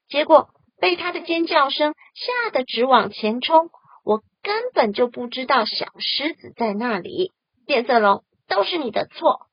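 高而响地气愤辩解; 委屈又恼火地一口气说完; 非常生气. Acted. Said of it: "非常生气". (气呼呼地大声说)

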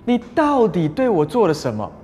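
a king jolted awake, demanding answers; calling Abraham in, shocked and accusing; alarmed king. Retold or imitated. Startled king summons Abraham.

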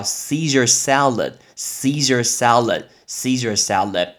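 Caesar salad drilled slowly, SEE-zer SAL-ud; model pronunciation. Shown as a demonstration. Teacher drilling the class, Caesar salad said slowly as SEE-zer SAL-ud. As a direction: say Caesar salad slowly and evenly for learners to copy. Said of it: "所以凯撒沙拉叫Caesar salad".

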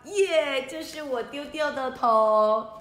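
loud joyful cry, then slow glad words; happy to find the lost head; delighted ghost. Acted. Headless ghost finds his lost head, delighted.

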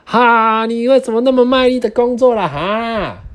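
high mocking pig voice; teasing laugh. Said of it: "还笑说".

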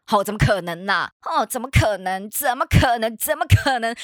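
dismissive mom brushing it off; scolding mom. Retold or imitated. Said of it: "我妈就一边骂".

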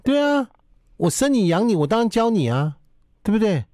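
high-pitched nagging parent voice; nagging mom lecture. Retold or imitated. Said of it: "听一下哈". (唠叨妈妈训话)

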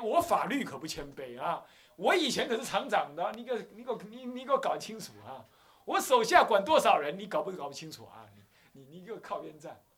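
a mock-arrogant boss snapping orders; boastful rant. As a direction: throw your weight around. Arrogant ex-factory boss pulls rank.

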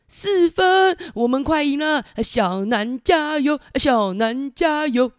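high-pitched eager cheer; excited cheering. Acted. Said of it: "小黑皮就说". (兴奋地加油)

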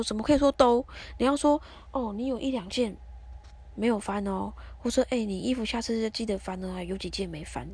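imitating husband's indignant complaint; mild mock anger. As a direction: pitch up a bit, retell his scolding. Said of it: "他还在生气了". (模仿丈夫生气地挑剔)

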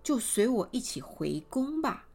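generous queen. Acted. Queen telling the mother she'll take the girl, grandly. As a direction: sweep the girl up with royal generosity. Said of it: "这皇后一听".

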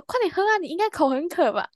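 coaxing prank. Retold or imitated. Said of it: "我说".

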